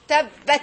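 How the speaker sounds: "tabbat" with the double letter stressed; "tabbat" as tab-bat, middle consonant held; doubled consonant. Shown as a demonstration. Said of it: "I will strengthen the letter".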